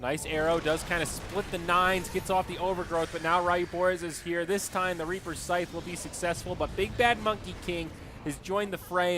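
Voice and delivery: live esports commentary; play-by-play. Acted. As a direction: call the action as it happens.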